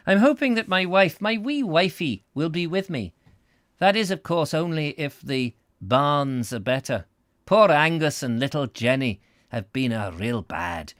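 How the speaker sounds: high, put-on Scottish voice; Scottish accent. Husband hopes wee wifey will join him, Scottish accent. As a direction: play a hammed-up Scotsman. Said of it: "Scottish accent here, I'm assuming".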